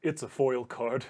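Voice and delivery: giggling through a nervous fan request; shy laughing plea, voice jumping up; Sandier laughing. Acted. Fan asks Gretty to sign his card, giggling. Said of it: "He says".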